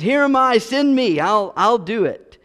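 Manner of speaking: high, bright eager offer; eager volunteer. Acted. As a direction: jump at the chance.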